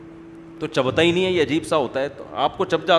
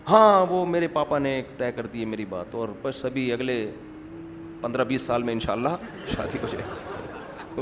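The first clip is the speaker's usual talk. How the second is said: mock serious; 4 semitones lower, 5 dB quieter than usual. Girl telling her friend about the engagement, mock serious. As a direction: lower and softer, falsely casual. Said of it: "بڑی سنجیدگی کے ساتھ نا".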